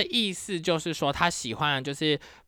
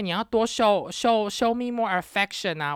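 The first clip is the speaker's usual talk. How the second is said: slow, higher, put-on voice of the date; mock Greek date; 4 semitones higher than usual. Vlogger imitates Greek date demanding affection, slow put-on voice. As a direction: imitate his pushy plea, slowly. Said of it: "他就跟我说".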